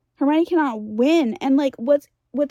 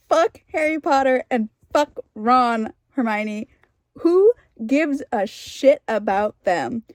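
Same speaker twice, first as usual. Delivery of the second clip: louder, heated outburst; angry swearing; 4 dB louder than usual. Real, not acted. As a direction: let the curse burst out in real frustration. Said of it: "I'm gonna swear in a second".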